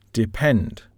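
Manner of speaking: depend, with PEND stressed; stress on last syllable. Shown as a demonstration. Teacher showing learners word stress, depend stressed on the last syllable. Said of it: "has the stress pattern on the last syllable".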